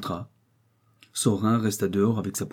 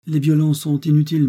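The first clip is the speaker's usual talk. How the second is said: firm rebuke; 8 semitones higher, 9 dB louder than usual. A narrator's reading. Notary rebukes her firmly.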